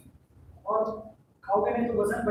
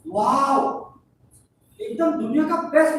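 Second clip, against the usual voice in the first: delighted wow; 3 semitones higher, 6 dB louder than usual. Acted. Holding one's small child.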